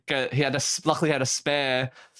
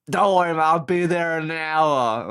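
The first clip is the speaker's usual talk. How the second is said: put-on broad Aussie accent; 3 semitones higher, 4 dB louder than usual. Rescuer reassuring stranded callers, broad Aussie accent. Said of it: "broad Aussie accent".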